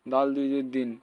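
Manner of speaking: দিন with a light dental d; thin d and pure i in দিন; plain dal. Shown as a demonstration. Teacher showing the confused letter, দিন with plain d. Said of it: "দালের সঙ্গে কিন্তু মিলে যাবে".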